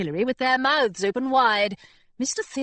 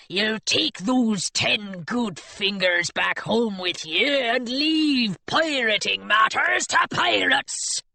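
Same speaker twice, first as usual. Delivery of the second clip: menacing pirate; slower than usual. Acted. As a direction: threaten slowly and calmly. Pirate warns Hilary.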